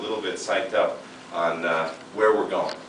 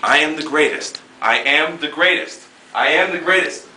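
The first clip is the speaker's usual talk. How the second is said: louder, higher boxer's boast; Muhammad Ali boast; 6 semitones higher, 5 dB louder than usual. Retold or imitated. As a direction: crow it like a champion. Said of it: "watching Muhammad Ali, and I just love his thing".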